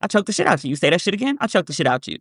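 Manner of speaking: calm, even, matter-of-fact threat; flat calm with no heat in it. Shown as a demonstration. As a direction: say it like it's nothing. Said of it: "just a matter of fact".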